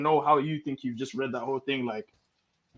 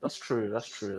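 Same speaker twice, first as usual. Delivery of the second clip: fading; 7 semitones lower, 11 dB quieter, slower than usual. Real, not acted. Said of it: "repeated fading".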